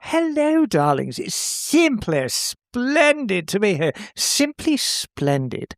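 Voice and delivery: posh drawling darlings voice, slow; a hint of a grand campy diva; campy drag queen. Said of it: "you're talking even more posh".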